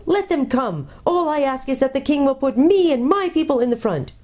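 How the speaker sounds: very high, tiny mouse voice; shrill small voice. A narrator's reading. Mouse cheering from the doctor's feet, shrill and small. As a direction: pipe up like a valiant little creature. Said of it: "a very shrill and small voice".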